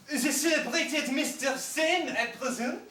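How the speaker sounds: slow, hammed-up French accent; mock French accent. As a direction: play the Marquis in a put-on French accent. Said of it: "in the most exquisite French".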